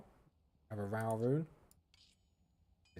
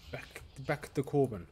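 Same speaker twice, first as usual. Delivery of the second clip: a clumsy stab at a French accent; self-mocking, half-hearted French accent; bad French accent; 2 semitones higher than usual. Shown as a demonstration. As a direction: try the name in a French accent and miss. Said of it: "It's a terrible, terrible accent".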